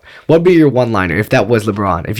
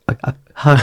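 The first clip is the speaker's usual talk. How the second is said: nervous stammer; stammering and stuck; stuttering; 3 semitones higher than usual. Pretend. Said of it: "just stuttering".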